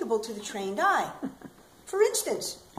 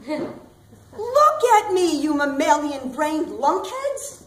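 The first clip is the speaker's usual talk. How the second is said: calling out; 2 semitones higher, 5 dB louder, slower than usual. Acted. Yelling at passers-by.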